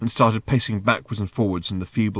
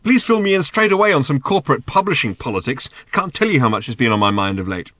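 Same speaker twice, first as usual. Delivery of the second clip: sarcastic; 5 semitones higher, 6 dB louder than usual. Acted. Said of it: "he shouted".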